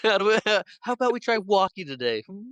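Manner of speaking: quick, patronizing question; condescending nurse. Retold or imitated. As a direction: imitate a nurse talking down, ending on "hmm?". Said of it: "She is condescending to this man".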